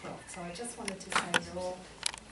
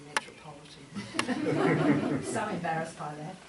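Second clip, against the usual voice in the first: laughing; 2 semitones lower, 8 dB louder, slower than usual. Real, not acted. Jokes about her own name.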